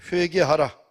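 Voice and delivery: loud, forceful command as Peter; preacher's shout. Retold or imitated. Peter calling the crowd to repent, preacher's shout. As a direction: cry it out to a whole crowd. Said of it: "그 청중들에게 외칩니다".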